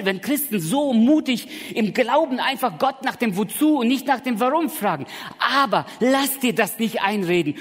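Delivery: loud, high, insistent sermon voice; fiery preaching. Acted. Preacher urging the congregation, loud and rousing. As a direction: drive the point home at full volume.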